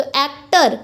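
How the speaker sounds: एक्टर broken as "act - er"; एक्टर with a slight gap before "er"; split into syllables. Shown as a demonstration. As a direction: say एक्टर in two beats, "act", then "er". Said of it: "एक है एक्ट और एक है अर".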